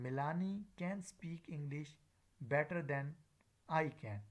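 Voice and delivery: unstressed first "can", full final "can"; weak then full "can". Shown as a demonstration. Teacher giving an example, weak then full "can". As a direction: pass lightly over "can speak", stress the "can" in "I can". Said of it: "The first can is the weak form".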